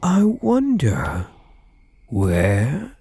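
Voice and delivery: slow, sing-song hide-and-seek taunt; teasing search. Acted. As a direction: draw it out like a game of hide and seek. Playful hide-and-seek search for captive.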